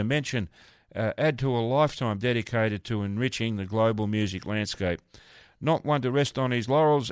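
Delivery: measured, fluent presenter read; formal bio read on air; scripted radio introduction. Real, not acted. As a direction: read out a guest's honours like a radio host. Reads a scripted guest introduction.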